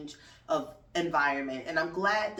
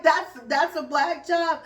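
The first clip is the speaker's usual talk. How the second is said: much higher, louder, slow "That's, that's a black job?" in disbelief; incredulous question; 10 semitones higher, 8 dB louder, slower than usual. Retold or imitated. Host questioning her guest's claim, stunned and loud. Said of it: "I was like".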